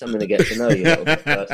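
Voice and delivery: fast, laughing mock creep; a hint of sinister, half-laughing; lightly voiced creepy host, quick and amused; creepy groomer voice. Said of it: "I felt like I was being groomed".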